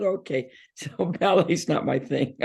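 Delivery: slow, chuckling resignation; laughing. Retold or imitated. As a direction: laugh it off slowly. Retold reply, laughing.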